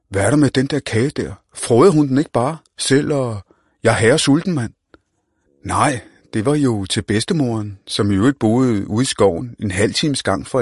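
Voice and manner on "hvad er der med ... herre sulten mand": put-on cocky street-kid voice; brash young slang talker; Mohammed. Mohammed wants the cake.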